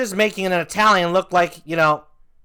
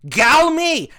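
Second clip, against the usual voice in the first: loud, higher-pitched gibberish exclamation; dubbed movie line; 8 semitones higher, 6 dB louder than usual. Retold or imitated. Comic mocking a TV edit of an action movie, loud dubbed exclamation. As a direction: blurt it out loud and high. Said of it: "What he says".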